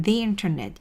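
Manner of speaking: "the internet" said "dee internet". Shown as a demonstration. Teacher models "the internet" for learners, pronounced "dee internet". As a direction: give "the" a long "ee" vowel before "internet". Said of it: "이렇게 읽겠죠".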